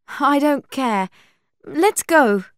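high, loud, cross dismissal; impatient. A narrator's reading. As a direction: cut off the argument firmly, high and loud. Buffy impatiently overrules her friends.

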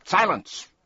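sharp, high thundering command. A narrator's reading. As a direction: bellow it to silence everyone. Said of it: "thundered the policeman".

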